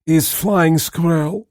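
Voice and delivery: high, hammy fake Russian accent. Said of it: "with a heavy and very fake Russian accent".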